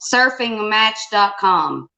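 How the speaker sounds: slow, spelled-out repeat; slow clear repeat. Real, not acted. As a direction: say it again slowly so he hears. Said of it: "Am I doing what?".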